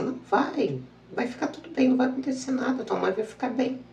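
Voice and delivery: high, gentle reassuring inner voice. Retold or imitated. A calming inner voice tells her mother will be fine, gently reassuring. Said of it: "uma voz assim".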